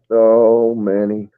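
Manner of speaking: low, resigned groan of words; retold weary reaction. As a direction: sink low, as if exasperated. Retold weary reply to Manny.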